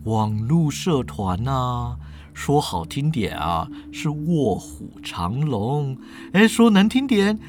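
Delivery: smug professor. Acted. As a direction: savour each word like a self-proclaimed mad scientist. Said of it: "严教授说了".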